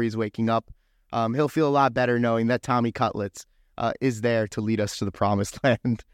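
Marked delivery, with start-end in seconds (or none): 3.8-6.0 breaking into a laugh mid-line; can't keep a straight face. Real, not acted. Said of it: "I can't even say that with a straight face".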